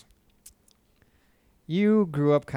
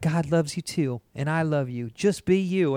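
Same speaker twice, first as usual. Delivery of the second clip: lightly voiced Southern mother; slightly raised, put-on Southern twang; bad Southern accent; 3 semitones higher than usual. Mother reassuring her son, lightly imitated Southern accent. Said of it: "the worst Southern accent".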